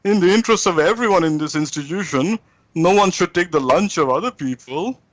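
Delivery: mock a careful, roundabout complaint; mealy-mouthed. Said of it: "you have to be mealy-mouthed".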